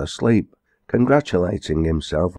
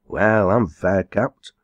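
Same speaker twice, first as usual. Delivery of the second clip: put-on old farmer; 2 semitones higher, slower than usual. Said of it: "said a grey-headed old farmer".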